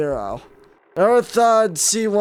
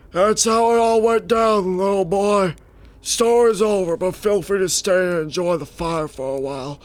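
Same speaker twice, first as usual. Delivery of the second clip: a lightly voiced old space pilot; old man voice. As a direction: spin the yarn like an old explorer. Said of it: "doing that old man voice".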